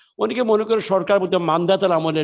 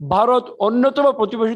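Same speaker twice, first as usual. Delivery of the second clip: প্রতিবেশী punched higher and louder; stress on neighbour; 6 semitones higher, 4 dB louder than usual. Real, not acted. Minister to the press, stressing প্রতিবেশী with a higher, louder voice. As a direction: lean hard on প্রতিবেশী, raising the pitch. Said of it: "প্রতিবেশী শব্দটাকে আমি জোর দিচ্ছি".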